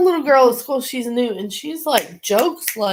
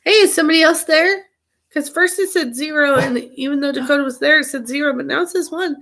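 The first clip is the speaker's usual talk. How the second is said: high, bright greeting to viewers; excited; 5 semitones higher than usual. Real, not acted. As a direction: call out to the chat eagerly.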